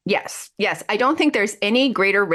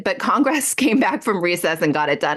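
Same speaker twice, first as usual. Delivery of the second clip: laughing while quoting. Real, not acted. Host reading a senator's ridiculous claim, real laughter breaking in. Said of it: "I can't even say that without laughing".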